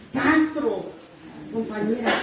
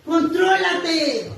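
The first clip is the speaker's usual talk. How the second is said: stern sponsor's warning; 3 semitones higher, slower than usual. Retold or imitated. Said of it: "me agarró y me dijo".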